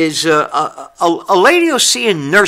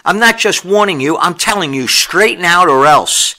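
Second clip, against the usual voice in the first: sharp rebuke. Shown as a demonstration. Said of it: "A rebuke is sharp".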